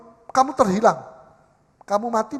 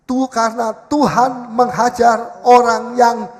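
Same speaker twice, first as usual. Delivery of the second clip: louder and slow, leading the recitation; 7 dB louder, slower than usual. Shown as a demonstration. Preacher leading the congregation in the verse, loud and slow. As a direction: call the verse out slowly so all can follow. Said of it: "Katakan sama-sama, keras".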